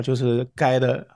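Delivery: 街 said slowly as gai; old northeastern 街. Shown as a demonstration. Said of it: "老的东北话里边儿". (慢慢地把“街”念成东北老话的“盖”)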